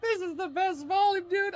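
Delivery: very high, soft, squeaky gush; ecstatic. Real, not acted. Streamer gushing about the chapter, squealing. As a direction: squeal it out in delight.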